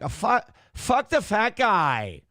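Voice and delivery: slow, mocking Asian accent impression, stretched out; a comic doing a broad Asian accent, slow and mocking; Asian Kevin Brennan. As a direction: drag out the words in a put-on Asian accent like Kevin Brennan's bit. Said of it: "they sound like Asian Kevin Brennan".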